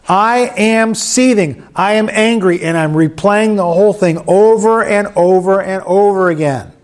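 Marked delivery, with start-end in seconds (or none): 0.1-5.1 acted seething. Shown as a demonstration. Pastor acting out an angry man, mildly raised voice. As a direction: play the seething man for them. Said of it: "Look at me".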